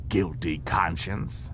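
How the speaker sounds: slow, dry and suspicious; a lightly voiced stern constable; Odo's gruff voice. Odo voiced in audiobook.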